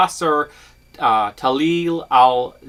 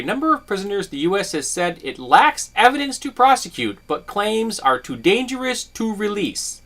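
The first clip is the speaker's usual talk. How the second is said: higher, pointed indignant reread; 5 semitones higher than usual. Real, not acted. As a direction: reread it with rising outrage. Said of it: "the most disturbing thing about this".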